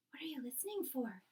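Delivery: hushed, hurried question; whisper. Acted. Sophie whispering back to the BFG at the window. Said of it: "Sophie whispered back".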